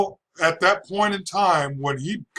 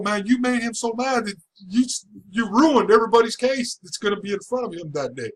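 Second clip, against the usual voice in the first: bailiff warning; 5 semitones higher than usual. Retold or imitated. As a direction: warn him like an alarmed bailiff. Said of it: "And he goes".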